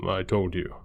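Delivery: lightly voiced reassuring father figure; a hint of a proud, relieved man. A narrator's reading. Man reassures boy in hospital.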